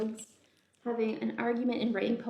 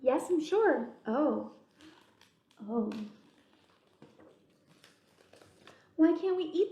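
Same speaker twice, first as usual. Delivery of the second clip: chatty bug voices; 3 semitones higher than usual. Acted. Bugs talk about the peach.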